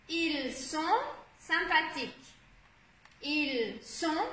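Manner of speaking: "Ils sont" slowly, holding the nasal on; showing ON sound. Shown as a demonstration. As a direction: separate the words, dwelling on the on in "sont". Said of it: "c'est le son on".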